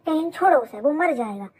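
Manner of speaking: loud, urgent yell to break it up; shouting to stop a fight. Acted. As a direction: shout him off before someone gets hurt. Friend yells to stop the fight.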